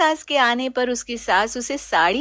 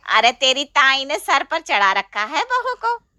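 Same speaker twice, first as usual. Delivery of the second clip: scolding aunt; 3 semitones higher, 5 dB louder than usual. Acted. Chachi scolding.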